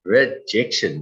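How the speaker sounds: slow teasing build to rejection; slow mock drumroll before "rejection"; drawn-out buildup. Shown as a demonstration. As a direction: stretch the da, da before the reveal. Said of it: "the concept of da, da".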